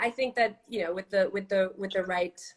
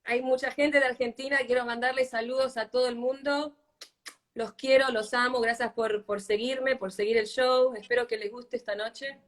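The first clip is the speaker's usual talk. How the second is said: greeting in Spanish; 3 semitones higher than usual. Real, not acted. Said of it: "Sorry, guys, you have to learn Spanish".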